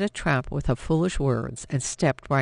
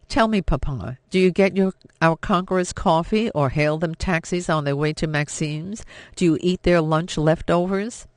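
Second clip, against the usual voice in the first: scornful taunt; 3 semitones higher, 4 dB louder than usual. Acted. Daughter taunts father.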